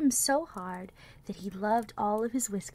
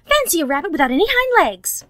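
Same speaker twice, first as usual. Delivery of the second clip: mocking; 8 semitones higher, 12 dB louder, faster than usual. A narrator's reading. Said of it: "he began to laugh".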